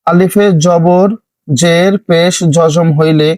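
each Arabic term spoken slowly and separately, আলিফে জবর জের পেশ জজম set apart; slow, deliberate teacher's spelling of আলিফে জবর জের পেশ. Shown as a demonstration. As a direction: dictate the terms slowly for learners. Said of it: "তারপর একটি দেখুন".

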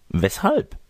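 put-on high, questioning old dame; puzzled old lady. Old lady questioning the stranger's odd request, puzzled. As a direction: ask it high, taken aback.

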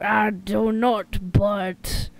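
put-on slow, overdone British accent; badly faked British delivery. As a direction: stretch it out in mock British. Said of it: "I'm so bad at doing a British accent".

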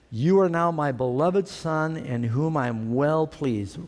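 slow, solemn blessing; lightly voiced God, slow and solemn. Voice of God speaking.

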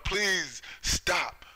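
high, slow imploring plea; mock pleading cry to stop the bombing. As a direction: beg them to stop, voice lifted. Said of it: "people are pleading for them".

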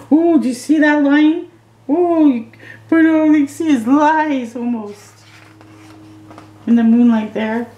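hushed-thrill wonder at the lion; excited gasp. Real, not acted. Adult showing a child a lion picture, high thrilled wonder.

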